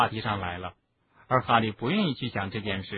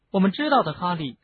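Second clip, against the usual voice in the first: higher-pitched, earnest reassurance; a narrator voicing a girl's earnest sympathy; heartfelt; 7 semitones higher than usual. A narrator's reading. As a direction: reassure him sincerely, easing off on the name. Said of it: "金妮情真意切地说".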